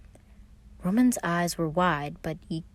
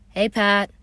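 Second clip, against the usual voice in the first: calling out; 4 semitones higher, 8 dB louder than usual. A narrator's reading. Virgil calling out to his brother Pat, friendly shout. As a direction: call out a greeting across the street. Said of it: "Virgil called".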